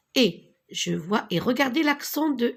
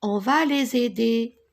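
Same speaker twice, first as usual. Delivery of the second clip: whispered liaison; 3 dB louder than usual. Shown as a demonstration. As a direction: whisper on va les aider with the liaison. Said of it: "ici la liaison". (on va les aider chuchoté avec liaison)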